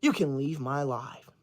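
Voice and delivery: low, quiet, slow send-off; cold dismissal. Real, not acted. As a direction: dismiss them coldly. Dismissing commenter.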